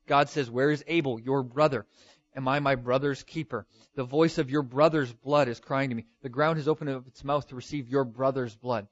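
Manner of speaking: every "brother" driven home with extra force; stress on brother. Shown as a demonstration. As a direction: hammer "brother" each time it comes. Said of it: "Very emphatic, over and over".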